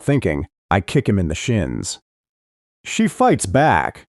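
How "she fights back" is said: higher, slow mocking squeak; lightly voiced squeaky mockery. A narrator's reading. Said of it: "in a mocking, squeaky voice".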